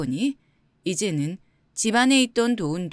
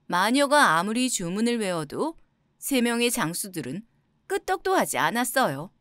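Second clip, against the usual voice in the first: usual speaking voice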